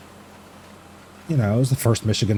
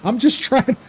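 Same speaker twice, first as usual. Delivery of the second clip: high-pitched, exasperated protest; worked-up, hammed-up self-defence; mock mad; 3 dB louder than usual. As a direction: protest indignantly, voice pushed way up. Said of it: "Why are you so mad?".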